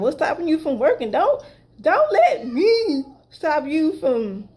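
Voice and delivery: breaking into laughter mid-question; quick, then laughing through the words; giggly teasing quote to him. Retold or imitated. Teasing him, laughing while quoting.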